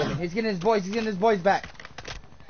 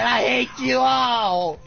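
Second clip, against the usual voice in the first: mock shout; 7 semitones higher, 4 dB louder, much slower than usual. Mock quoting teammate, shouting.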